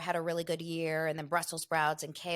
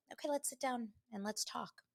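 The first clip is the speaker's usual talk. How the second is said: reserved couple imitation; 5 semitones higher, 9 dB quieter than usual. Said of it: "this couple is like".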